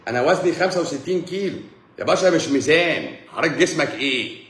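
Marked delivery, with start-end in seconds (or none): 0.1-1.6 higher, laughing through the wife's claim; laughing wife quote. Retold or imitated. Comedian quoting a wife stating her weight, laughing. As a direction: giggle out her weight like a joke. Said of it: "تقول لك".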